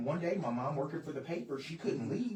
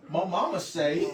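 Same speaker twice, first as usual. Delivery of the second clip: slow, louder mock mama's-boy drawl; Waterboy; 5 dB louder, slower than usual. Quoting mama as in the film, slow comic imitation. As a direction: lightly imitate the movie's slow catchphrase. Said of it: "or like on Waterboy".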